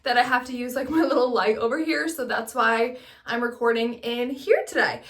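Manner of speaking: recorded in a small echoey bathroom; echoing bathroom. Real, not acted. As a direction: voice bouncing off bathroom tiles. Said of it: "I'm filming in my bathroom right now".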